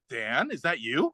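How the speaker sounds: slow, quiet dawning recognition; tentative recognition. Retold or imitated. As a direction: imitate a fighter hesitantly recognising his opponent. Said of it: "that scene where he's at the end".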